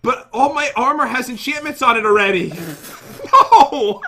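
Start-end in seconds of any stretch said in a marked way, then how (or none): 2.6-4.1 high, slow words through laughter; laughing. Real, not acted. Armor already enchanted, laughing.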